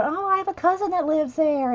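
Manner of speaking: a lightly voiced chatty viewer; imitating viewers. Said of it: "And now people go".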